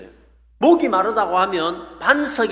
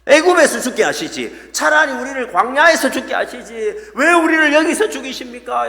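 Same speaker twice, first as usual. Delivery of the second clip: mock wailing plea to God, raised and loud; wailing complaint; 4 semitones higher, 4 dB louder than usual. Israelites wailing at God in the wilderness, mock lament. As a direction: act out a people crying out, half-hammed. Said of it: "막 울고 불고 난리가 난 거예요".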